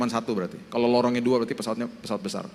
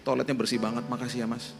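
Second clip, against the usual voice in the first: sincere thanks; 6 dB quieter than usual. Acted. Thanking the toilet attendant.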